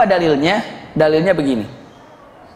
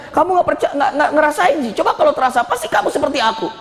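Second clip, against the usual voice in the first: higher-pitched mock tearful complaint; acted tearful protest; 6 semitones higher than usual. Grieving woman answering the Prophet, acted tearful protest. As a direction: protest as if crying, lightly acted. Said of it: "hanya begini sambil nangis".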